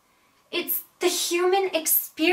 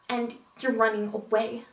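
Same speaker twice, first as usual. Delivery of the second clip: restrained hurt accusation. Acted. Acted confrontation, first take.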